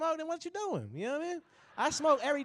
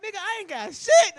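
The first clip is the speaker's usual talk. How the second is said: much higher and louder, suddenly caught out; pitched-up yelp of panic; high panicked admission; 11 semitones higher, 7 dB louder than usual. Retold or imitated. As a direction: blurt the truth you were hiding. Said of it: "and I'm like".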